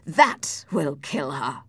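slow, weighty insistence; slow, pained exclamation; impassioned cry. Acted. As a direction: drive it home slowly. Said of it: "cried Heathcliff".

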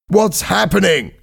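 high, urgent demand; alarmed question. A narrator's reading. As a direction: demand to know, voice pitched high. Trapped diver asks on telephone.

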